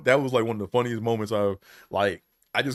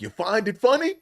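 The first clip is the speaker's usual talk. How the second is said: pitched up, a bit louder, mocking; mock preacher scolding; 10 semitones higher, 3 dB louder than usual. Preacher needles the laughing cameraman, mock outrage. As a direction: call him out as the preacher, needling.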